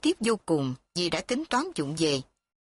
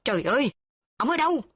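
exasperated cry; 5 semitones higher, faster than usual. A narrator's reading. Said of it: "Cô Ngó dậm chân".

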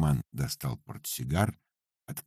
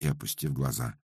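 plain reading voice

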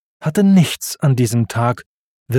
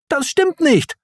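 Timon widerspricht. Acted.

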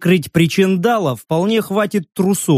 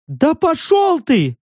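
high creature snarl; 11 semitones higher, slower than usual. A narrator's reading. Repeated retort.

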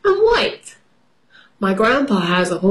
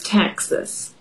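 hushed; 5 dB quieter than usual. Acted. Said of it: "Robert says".

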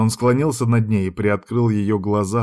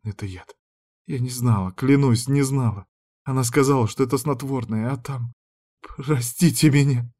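tearful confession; 3 semitones higher than usual. Acted. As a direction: confess through rising tears. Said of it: "Заревев".

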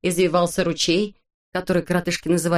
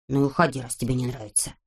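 lower, softer grumpy reply; Vorchun's voice; 6 semitones lower, 5 dB quieter than usual. A narrator's reading. Vorchun answering Neznaika, lower and softer. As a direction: grumble dismissively.

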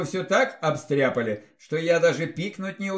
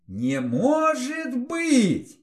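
slow, stunned, high gasp; shocked whisper; 7 semitones higher, much slower than usual. A narrator's reading. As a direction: breathe it out in shock. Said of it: "потрясённо прошептала".

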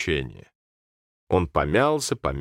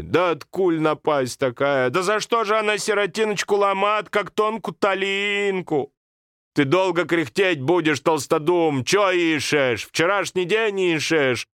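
put-on high, lamenting old woman, then scolding; wailing over the child, then nagging; grandmother lamenting; 9 semitones higher than usual. Grandmother berates her slow husband, high and lamenting.

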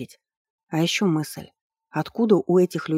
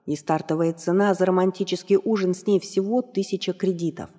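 ringmaster; 3 semitones higher than usual. Acted. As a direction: stretch the words like a fight announcer. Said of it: "словно объявлял выход бойцов на ринг".

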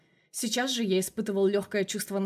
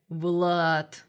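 lower, drawn-out and apologetic; guilty drawn-out; 3 semitones lower than usual. Acted. The colonel calls Vlad, guilty and drawn out. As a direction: stretch the name out, a bit sheepish. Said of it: "несколько виновато протянул тот".

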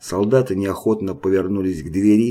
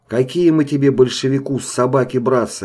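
loud, higher mocking yell; yelling sergeant; 5 semitones higher, 4 dB louder than usual. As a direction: bellow the insult back at him. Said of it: "орал фельдфебель".

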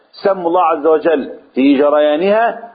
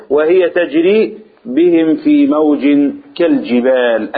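Quran recitation; slower than usual. Shown as a demonstration. Reciting the verse.

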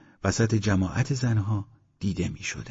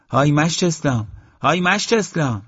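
high, loud hail, climbing higher when repeated; calling out; 7 semitones higher, 5 dB louder than usual. A narrator's reading. Mother calls from the room to Eslam, shouting. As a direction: shout for someone out of earshot. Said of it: "از توی اتاق داد زد".

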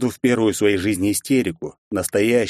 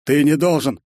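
protesting shout; 6 semitones higher, 4 dB louder than usual. Acted. Friend protesting loudly.

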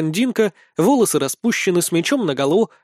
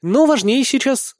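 ordinary delivery, nothing marked

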